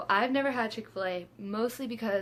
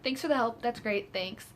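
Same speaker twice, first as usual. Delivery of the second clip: mock gratitude, falling away at the end; dry retold sarcasm; sarcastic thanks; 3 semitones higher than usual. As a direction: thank them sarcastically as they abandon you. Sarcastic thanks to departing employee.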